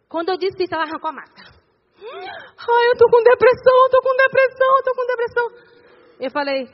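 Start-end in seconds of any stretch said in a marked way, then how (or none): 2.0-5.4 high, loud imitated wailing; acted desperate, sobbing outburst; tearful outcry. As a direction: cry it out like someone breaking down. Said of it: "começou a chorar".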